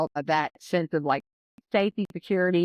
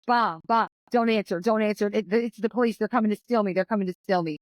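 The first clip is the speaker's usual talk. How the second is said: higher, urgent frightened pleading; imitating a scared girl begging, mildly; panicked child; 4 semitones higher than usual. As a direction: daughter panicking at a knock on the door. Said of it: "panic mode".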